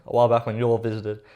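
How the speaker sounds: put-on cowboy accent. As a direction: read it with a hint of cowboy accent. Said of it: "bring out the cowboy accent again".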